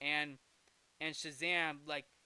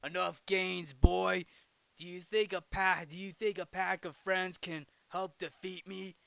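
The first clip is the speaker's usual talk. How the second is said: put-on loud villain taunt with a barked "boy"; lightly voiced gloating villain; villain speech; 5 dB louder than usual. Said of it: "is like".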